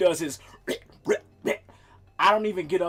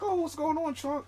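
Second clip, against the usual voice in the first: much higher, sing-song pet-parent voice; talking to the pet; 8 semitones higher than usual. Retold or imitated. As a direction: chat to the cat like a doting parent. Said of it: "as a parent would".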